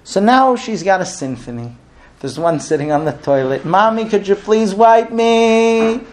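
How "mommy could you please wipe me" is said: put-on small child asking. Child calls from the toilet.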